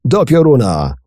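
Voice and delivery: a loud, angry roar. A narrator's reading. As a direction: bellow the curse at him. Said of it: "ryknął kapitan". (ryk kapitana)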